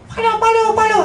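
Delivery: high, loud shouted directions; calling out. Retold or imitated. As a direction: yell the directions across a noisy crowd.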